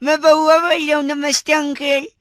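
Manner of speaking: put-on voice with a bad throat; sore-throat voice. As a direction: pretend lost-voice greeting. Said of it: "गला खराब है".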